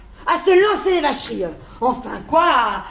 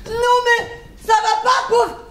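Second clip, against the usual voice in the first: mock insult; 4 semitones higher than usual. Staged fake quarrel insult.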